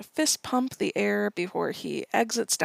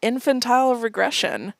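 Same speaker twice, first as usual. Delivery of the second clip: excited yell; 3 semitones higher, 4 dB louder than usual. Retold or imitated. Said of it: "Bert yells".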